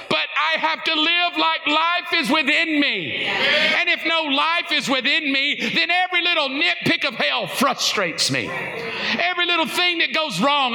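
shouted preaching over the music; full-force preaching. Acted. Preacher urging the congregation by name to keep praising. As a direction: drive it home like a revival preacher.

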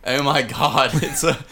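hammed-up Boston horror victim; Boston accent. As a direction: exclaim it like a dramatic Bostonian. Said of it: "from the Boston area".

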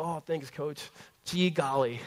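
lightly voiced aw-shucks nice guy; a hint of a wholesome boy thanking his coach; mock goody-goody. Pastor mimics his younger self thanking the coach, mildly hammed-up. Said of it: "'cause that's how I talked".

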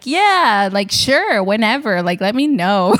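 casual, breezy nonchalance; mock cool. Pretending to reply cool to a famous photographer, mock nonchalant. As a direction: act way too chill on purpose. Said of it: "super cool".

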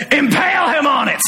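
high, booming royal decree; king ordering Haman's death in a big voice; big kingly voice. Retold or imitated. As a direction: thunder it like a king. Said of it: "you gotta do this in a big kingly voice".

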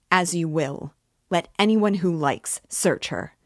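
loud, defiant challenge; Katerina crying out. Acted. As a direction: throw it at the room. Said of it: "cried Katerina Ivanovna".

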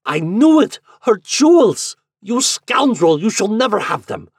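very high, very loud outraged cries; full-voiced, high-pitched furious denunciation; angry exclamation. A narrator's reading. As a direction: explode in outrage at the scoundrel. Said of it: "was heard his angry exclamation".

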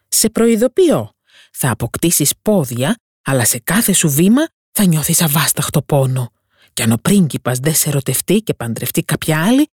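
a sea witch spelling out the curse; witch's warning. Acted. Witch warns the mermaid of pain and sea foam, ominous.

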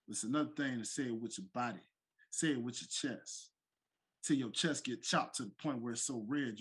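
taunting heel promo; wrestling promo. Pretend. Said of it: "bring this in segment style".

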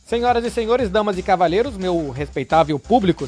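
grand showman opening the show; ringmaster. Acted. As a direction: announce it like a circus ringmaster.

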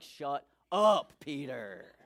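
loud "shut up" dropping low on the name; fed-up retort. Acted. Disciples tired of Peter's boasting, mock fed-up retort. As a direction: cut off the braggart, mock exasperated. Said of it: "they're all like".

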